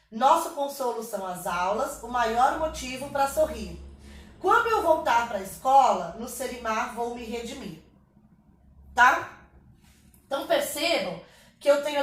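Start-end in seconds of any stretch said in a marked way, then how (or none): 0.1-7.8 a verse recited to bring out its beat; rhythmic verse reading. Shown as a demonstration. Teacher showing students the poem's rhythm, rhythmic reading. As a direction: read the line in rhythm. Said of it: "A gente lê com ritmo".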